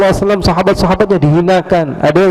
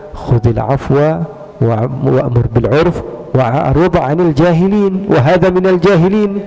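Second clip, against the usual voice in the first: Quran recitation; slower than usual. Real, not acted. Preacher quoting the verse to the crowd, reverent recitation.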